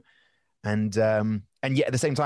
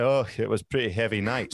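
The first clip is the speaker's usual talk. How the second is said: put-on older man voice. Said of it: "And I was like".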